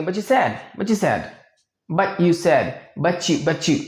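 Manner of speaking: but you said as "butchu said"; butchu, T and Y merged to CH; butchu blend. Shown as a demonstration. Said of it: "इसको American movies में आप सुनेंगे".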